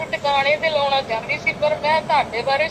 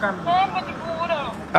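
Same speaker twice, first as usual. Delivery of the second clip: broken; 2 semitones higher, slower than usual. Real, not acted. Broken daughter, slow.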